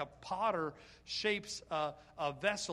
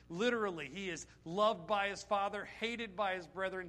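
louder, building fervent preaching; preaching climax; 4 dB louder than usual. Real, not acted. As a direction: drive it home to the congregation, louder.

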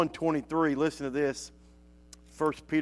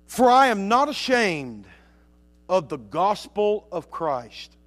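scripture reading. Acted. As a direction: proclaim the verse, starting big and slowing down. Reads Romans one sixteen.

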